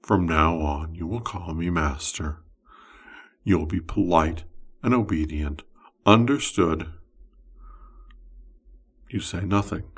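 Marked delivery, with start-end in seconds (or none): 0.0-6.9 wizard's voice. Acted. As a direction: claim the summoned one as your own. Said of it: "He says in your ear".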